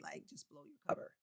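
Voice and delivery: whispered, quick playful threat; fast breathy whisper of mock blackmail; teasing whisper. Real, not acted. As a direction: whisper it like a secret you might spill. Teasing a viewer about age.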